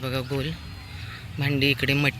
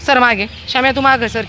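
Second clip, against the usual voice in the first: high, loud scold to a greedy dog; firm loud scolding; 8 semitones higher, 9 dB louder than usual. Real, not acted. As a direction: shoo the dog back.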